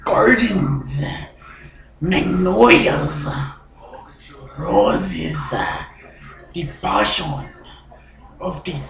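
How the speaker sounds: slow, hushed Latin gardener; breathy whispering. Acted. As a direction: murmur it softly, drawing out each phrase. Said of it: "why are you whispering and spitting all over the place".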